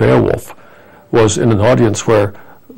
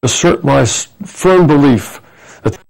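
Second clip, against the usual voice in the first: slow, higher orator's delivery of the famous line; Roosevelt oratory; 4 semitones higher than usual. Retold or imitated. Quoting Roosevelt to the interviewer, in a slow, raised orator's voice. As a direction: lightly play the old president at the podium. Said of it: "so I can quote you some".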